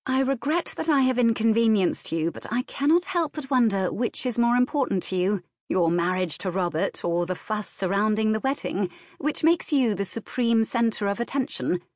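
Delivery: a touch of dry sisterly reproach; lightly voiced older sister, dry.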